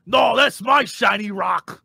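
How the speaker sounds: slow, shouted ogre voice; dim giant. Acted. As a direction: bellow it like a dumb ogre. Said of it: "I'll be like".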